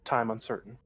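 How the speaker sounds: ship computer reporting, even tone; lightly voiced computer readout; robot voice. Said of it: "nothing but robot voices".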